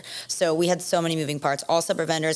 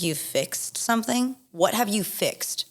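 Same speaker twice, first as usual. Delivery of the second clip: sarcastic disbelief; 5 semitones higher, slower than usual. Retold or imitated. Mocking reply to planner.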